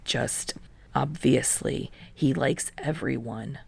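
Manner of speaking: soft, low brush-off; hushed deflection. A narrator's reading. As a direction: brush it off under the breath.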